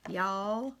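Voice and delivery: drawn-out Texas y'all with a rising end; Texas drawl. Shown as a demonstration. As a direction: stretch the Y'all like a Texan. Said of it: "I act like I'm from Texas or something".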